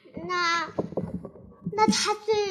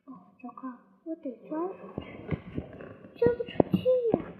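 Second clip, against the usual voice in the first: rising fast panicked pleas, higher and higher; 4 semitones higher, much faster than usual. Acted. Pooh stuck in the hole, panicking and speeding up. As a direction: scramble in a frantic rush. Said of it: "维尼急得不行".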